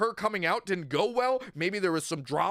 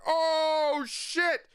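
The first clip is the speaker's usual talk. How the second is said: much higher, fast mock panic; hammed-up alarmed player, higher and fast; panicked gamer; 10 semitones higher than usual. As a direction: play the alarmed player rushing to search. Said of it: "You're like".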